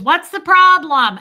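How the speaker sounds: shouting into the phone over noise; dad yelling. Retold or imitated. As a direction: yell it over a bar crowd. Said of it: "it's, like, loud".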